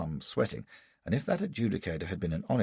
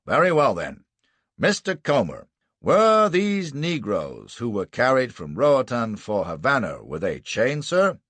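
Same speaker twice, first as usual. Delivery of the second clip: prosecutor questioning; 5 semitones higher, 6 dB louder than usual. Acted. Lawyer questions witness.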